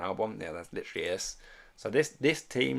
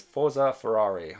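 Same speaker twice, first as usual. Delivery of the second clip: louder, slow, drawn-out "Forza Ferrari" cheer; chat cheer read out; 7 dB louder than usual. Retold or imitated. Reading a viewer's chat message aloud, slow cheer. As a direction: belt out "Forza Ferrari" like a fan chant. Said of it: "I can't say it in an Italian voice".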